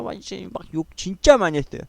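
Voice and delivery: ordinary delivery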